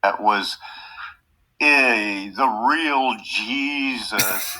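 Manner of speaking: a hint of a goofy childish puppet; lightly voiced silly puppet. Host mocks puppet's childish voice, lightly done. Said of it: "Why you doing these childish voices?".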